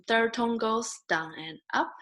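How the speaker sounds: "down and up" dips, then climbs; tone song, dipping. Shown as a demonstration. Teacher recalling the tone song, dipping chant. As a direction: let the voice go down, then up on "down and up". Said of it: "you still remember the song".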